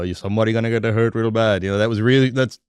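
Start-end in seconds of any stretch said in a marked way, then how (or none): 0.0-1.6 light Indian accent impression; lightly imitating an Indian accent. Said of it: "I do an Indian accent as well".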